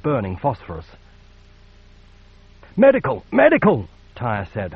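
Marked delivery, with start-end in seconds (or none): 2.8-3.2 loud raw cry for a medic; gritty plaintive shout. Acted. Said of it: "her voice gritty and plaintive". 3.3-3.9 higher, even more desperate raw cry; gritty plaintive shout. Acted. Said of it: "her voice gritty and plaintive".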